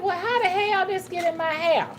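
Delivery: high, baffled self-quote; high-pitched retelling. Retold or imitated. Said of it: "I said".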